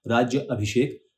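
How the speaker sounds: राज्य अभिषेक with a slight break after राज्य; split at the pause. Shown as a demonstration. Teacher showing the break in राज्य अभिषेक, slow. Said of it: "य के बाद हल्का सा पॉज लेते हुए".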